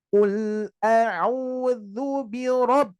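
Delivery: very slow "birob" with the b swallowed; drawn-out tajwid recitation; slow recitation, closed ba. Shown as a demonstration. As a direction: recite slowly, letting the b vanish. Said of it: "Hilang tuh".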